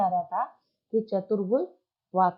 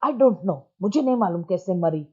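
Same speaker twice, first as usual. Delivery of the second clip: irritated. Acted. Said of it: "एकदम चिढ़ के बोलता है".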